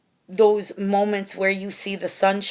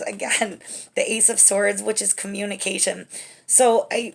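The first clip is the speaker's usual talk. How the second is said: usual speaking voice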